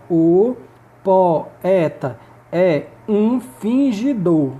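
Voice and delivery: very slow "o po-e-ta é um fin-gi-dor", pausing between syllables. Shown as a demonstration. Teacher counting out grammatical syllables for students, slow syllable by syllable. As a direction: break "o poeta é um fingidor" into separate, drawn-out syllables. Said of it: "ela possui nove sílabas gramaticais".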